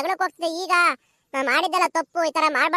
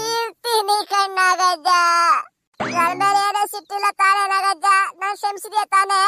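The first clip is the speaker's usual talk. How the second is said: tearful pleading. Acted. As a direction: whine it out through tears, begging forgiveness. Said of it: "ಅಳ್ಬೇಡ, ಅಳೋದ್ ನಿಲ್ಸವ್ವ". (ಅಳುತ್ತಾ ಅಂಗಲಾಚುವ ಧ್ವನಿ)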